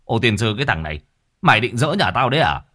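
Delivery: lightly voiced old man's scolding yell; mild mock bellow. Village head yells at Hoan for kicking the gate, mild bellow. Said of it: "Ông gân cổ quát".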